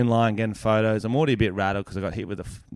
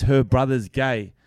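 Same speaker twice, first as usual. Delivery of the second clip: slow, measured mock accusation; mock accusing; slower than usual. Woman brings up her friend's brother, mildly mock accusing. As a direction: imitate a pointed complaint, drawn out.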